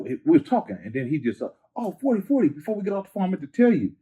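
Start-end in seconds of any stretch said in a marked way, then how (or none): 1.8-3.9 higher, lively retelling of his friend's words; a friend's eager phone call, mildly voiced higher; imitating a rapper friend. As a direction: lightly act out the friend calling him back before hanging up. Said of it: "he was like".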